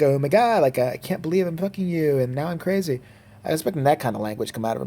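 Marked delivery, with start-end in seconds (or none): 0.0-3.0 lightly voiced valley girl, a bit higher; a hint of valley girl gushing. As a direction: toss it off like a ditzy valley girl. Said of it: "like, a valley girl".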